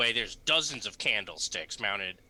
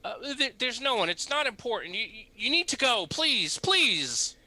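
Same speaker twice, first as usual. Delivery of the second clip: nervous priest voice; 12 semitones higher, 5 dB louder than usual. Acted.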